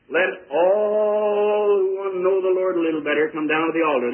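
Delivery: big, loud public invitation; preacher's altar call. Acted. Preacher invites everyone to the altar, loud acted call. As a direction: call out to a whole congregation.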